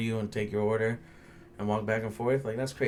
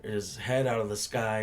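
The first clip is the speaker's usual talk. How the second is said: mocking customer; slower than usual. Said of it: "trying to be funny".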